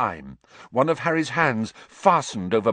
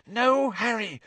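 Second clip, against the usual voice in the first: petrified whisper; 12 semitones higher than usual. Acted. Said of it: "Hermione gasped in a petrified whisper".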